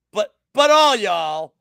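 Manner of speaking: slow, loud Southern "all y'all" with the vowels stretched; Southern drawl. Shown as a demonstration. Betting show host mocking the crowd in a Southern drawl. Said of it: "so I can do the Southern drawl".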